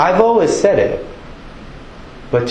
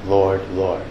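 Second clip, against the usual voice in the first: lower, softer, heartfelt address to the Lord; really knowing; 5 semitones lower, 5 dB quieter than usual. Shown as a demonstration. Believer who truly knows the Lord, low and sincere. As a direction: say it low and soft, meaning it. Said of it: "and really knowing".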